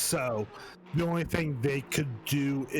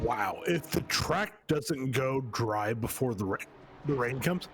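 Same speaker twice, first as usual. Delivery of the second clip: talking through hiccups; words broken by hiccups. Real, not acted. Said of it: "I can't stop hiccuping".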